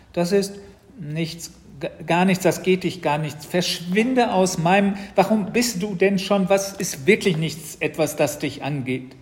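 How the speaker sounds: put-on high, loud, halting panic of a boy; flustered stammering. A narrator's reading. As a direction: caught out, stumbling from one excuse to the next. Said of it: "Während Matz noch vor sich hin stammelte".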